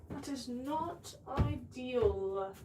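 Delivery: put-on slow, dry British accent. Streamer to stream chat about a failed lid, mock British accent. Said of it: "I'm sorry, I do British accent".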